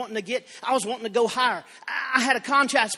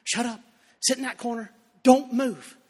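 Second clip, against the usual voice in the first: mock mother scolding. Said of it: "She'd say".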